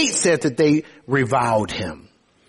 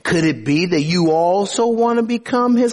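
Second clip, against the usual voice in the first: sarcastic. Acted. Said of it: "he says sarcastically".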